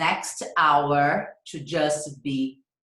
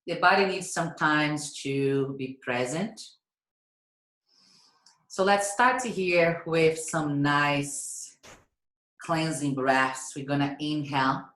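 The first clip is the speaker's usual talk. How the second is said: unhurried cueing with stretched key words and long pauses; guided yoga breathing. Real, not acted. Yoga teacher guiding class through cleansing breaths, unhurried breath cues. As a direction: lead them through each breath, drawing out the inhales.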